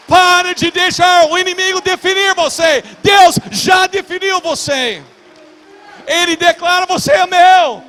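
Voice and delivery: high, shouted preaching that builds to a peak; full-force preaching. Real, not acted. Preacher telling believers God has already defined them, full-force preaching. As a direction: thunder each declaration at the congregation.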